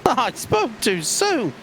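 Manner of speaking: slow laughing self-mockery. Real, not acted. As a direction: laugh at your own jinx. Laughs at own jinx.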